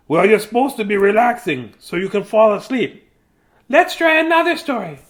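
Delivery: lightly voiced patient father; papa voice. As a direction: coax the chick to relax. Father calms chick.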